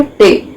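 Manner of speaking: "टे" repeated as one separate syllable; isolated syllable. Shown as a demonstration. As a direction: sound out "टे" by itself. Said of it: "इंटेलिजेंट में कितने syllable हैं".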